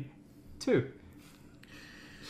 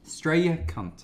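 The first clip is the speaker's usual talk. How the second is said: imitated Australian accent coach; slower than usual. Accent coach demonstrating two words to an actress, Australian accent. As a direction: show a simple Australian accent. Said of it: "Can you teach me the Australian accent".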